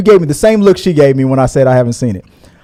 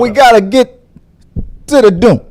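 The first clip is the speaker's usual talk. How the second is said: lightly imitated actor, raised and halting; Christopher Walken; 5 semitones higher than usual. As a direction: put odd pauses into a mock actor's line. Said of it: "Christopher Walken".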